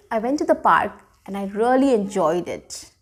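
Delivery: bright, smiling retelling of a fun day; cheerful, smiling delivery; smiling, happy. Shown as a demonstration. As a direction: sound like you really enjoyed it. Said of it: "See, I have a smile, my eyes are shining".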